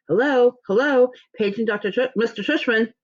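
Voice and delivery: high, wobbly old lady impression; fake old lady voice. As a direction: put on a squeaky old lady voice. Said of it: "that fake high old lady voice".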